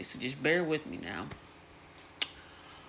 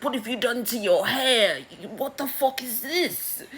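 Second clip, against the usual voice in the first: much higher put-on voice, shocked and scolding; outraged father; 10 semitones higher, 4 dB louder than usual. Daemon shocked at his daughter's hair, high scolding voice. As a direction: gasp at the state of her hair.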